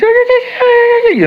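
shrill-free high octave jump, loud; mom's high octave call. Retold or imitated. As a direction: shoot up an octave like mom calling.

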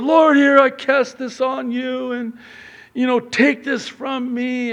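mock earnest surrender; hammed-up pious prayer. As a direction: make a show of giving it up. Believer praying, handing over.

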